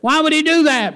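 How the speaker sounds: Why would he do that? asked high and loud, puzzled; mock puzzled question. Preacher voicing a doubter, high puzzled question.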